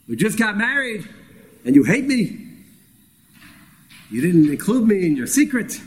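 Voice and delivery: wife accusing her husband of hating her; hurt wife's accusation. Retold or imitated. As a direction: throw the betrayal at your new husband. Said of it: "Sinesani V'loy Ahavtani".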